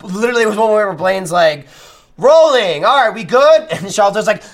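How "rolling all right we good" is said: loud, high set call; calling rolling. Retold or imitated. Director calling the take on set, loud and high. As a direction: call out to the crew.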